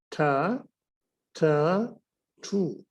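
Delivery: to said ठू, aspirated. Shown as a demonstration. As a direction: breathe out on ठू. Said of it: "this word is spoken as ठ".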